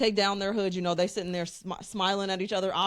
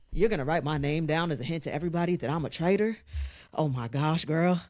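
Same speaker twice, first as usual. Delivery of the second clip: Rob's suggestive growl; 4 semitones lower, faster than usual. Retold or imitated. Podcaster quoting a contestant to her co-hosts, low suggestive growl. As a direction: imitate him with sexual tension under the words. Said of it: "try to say it in their tone and rhythm".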